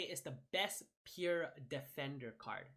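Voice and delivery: "pure" set apart and deliberately emphasized; stress on pure. Real, not acted. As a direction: lean on the word "pure" to single it out. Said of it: "I emphasize the word pure".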